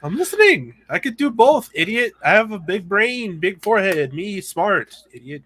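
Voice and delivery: teasing the cohost in a loud mock brute voice; dumb brute. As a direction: bellow like a proud caveman.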